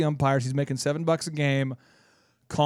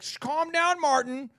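mock hushing friend; 6 semitones higher than usual.

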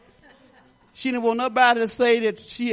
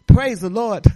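ordinary talk, nothing marked

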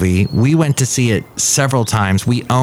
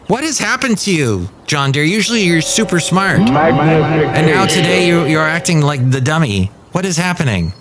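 a bit higher, mock-puzzled character; lightly high puppet voice; 4 semitones higher than usual. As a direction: tease the dummy in a squeaky tone. Puppet scolds John Deere.

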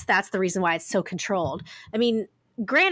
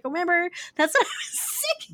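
laughing reply; 10 semitones higher than usual. Retold or imitated. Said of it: "I was like".

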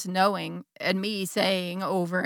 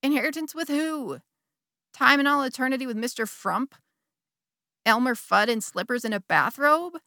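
countering inner voice; 4 semitones higher than usual. Retold or imitated. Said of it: "the other voice kept countering".

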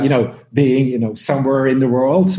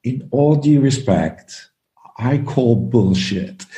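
slow, polite English gentleman; lightly voiced posh Englishman, measured and calm; very nice voice; slower than usual. Speaker retelling a British panelist's polite challenge, slow and courteous. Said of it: "in this very nice voice".

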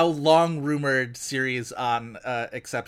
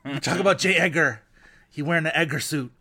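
Siobhan Fallon impression; 3 semitones higher, 4 dB louder than usual. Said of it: "I dip into, um, Siobhan Fallon from Men in Black".

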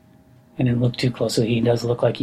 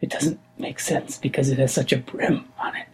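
whispering. Acted. Whispering about sleeper.

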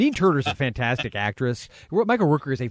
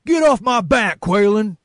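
much higher and louder, slow menacing bark; hammed-up villain Travers; 10 semitones higher, 9 dB louder, slower than usual. Podcast host reading Travers' line, hammed-up villain bark. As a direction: overplay a henchman's outraged demand. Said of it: "I'll be Travers".

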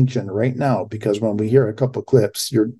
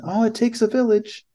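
much higher mocking put-on voice; sarcastic high-pitched imitation of a politician; Hillary Clinton impression; 10 semitones higher than usual. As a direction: lift the pitch way up to mock her. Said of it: "Hillary Clinton".

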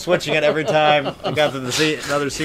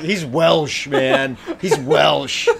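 louder, pushy friend egging on; excited urging; 2 semitones higher, 6 dB louder, slower than usual. Retold or imitated. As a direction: hype him up to go Welsh. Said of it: "you were all of a sudden like".

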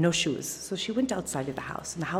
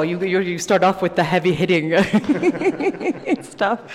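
laughing; 3 semitones higher, 10 dB louder than usual. Real, not acted. Laughs at the heavy question.

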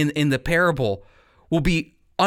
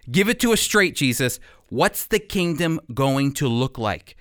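eager disciples. Retold or imitated. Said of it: "I could just hear the disciples saying".

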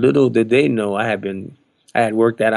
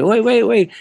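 high, loud repeated interjection; retold amazed halt; 12 semitones higher, 5 dB louder than usual. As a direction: call a halt in astonishment. Amazed bandmate stops everyone, retold.

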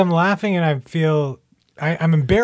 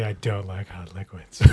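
mock quote; 6 semitones lower, 9 dB quieter than usual. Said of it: "Gord's, like, looking at me".

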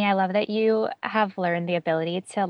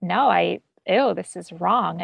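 squeamish rejection; 5 dB louder, slower than usual. Retold or imitated. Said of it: "feel really weird and uncomfortable".

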